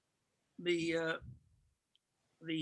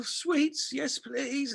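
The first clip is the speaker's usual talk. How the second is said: higher, coy acceptance; imitating keen passenger; 5 semitones higher, much slower than usual. Passenger answering the flight attendant, imitated high and keen. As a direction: accept it in a high, mock-grateful voice.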